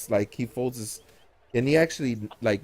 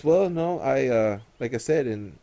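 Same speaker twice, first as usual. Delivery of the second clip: Inquisitor; 4 semitones higher, 5 dB louder than usual. Acted. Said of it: "he goes".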